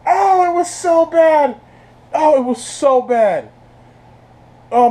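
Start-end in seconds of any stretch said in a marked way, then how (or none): 0.1-3.5 high, slow words through laughter; can barely speak for laughing. Real, not acted. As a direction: wheeze it out laughing. Still laughing at the scene.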